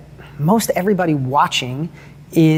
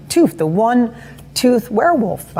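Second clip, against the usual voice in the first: slow, higher-pitched story title; storyteller's announcement; 5 semitones higher, slower than usual. Retold or imitated. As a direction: announce the legend to your kids, drawn out. Announces his story's hero to his kids.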